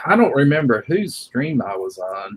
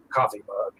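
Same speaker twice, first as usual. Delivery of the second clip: gnome voice. Acted. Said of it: "He goes".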